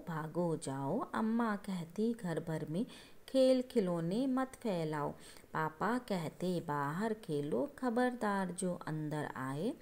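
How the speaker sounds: slow, measured reading of the verse; slow poem recitation. Shown as a demonstration. Teacher rereading the poem to her class, slow and measured. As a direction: read the poem aloud slowly for the children. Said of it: "दोबारा समझाती हूँ आपको ये कविता".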